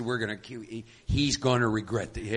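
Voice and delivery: a quiet, brooding vow of revenge against a husband; Zena vengeful. Acted. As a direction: promise him payback under your breath. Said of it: "Zena rears up and said".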